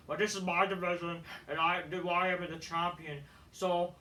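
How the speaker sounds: lightly put-on wrestler promo voice; promo read-out. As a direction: read out a champion's warning in a put-on voice.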